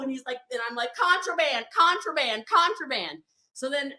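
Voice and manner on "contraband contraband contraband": higher-pitched, repeated accusing call; retold chant of accusation; mock accusation. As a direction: call it out like an alarm.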